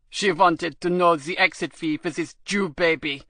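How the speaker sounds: fawning, eager to please; lightly voiced crawling official; a hint of servile toadying; ingratiating voice. A narrator's reading. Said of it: "The customs official used an ingratiating voice".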